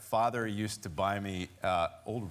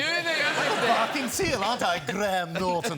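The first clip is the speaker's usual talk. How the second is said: character voice; 9 semitones higher, 7 dB louder, slower than usual. Acted. Playing up character voice.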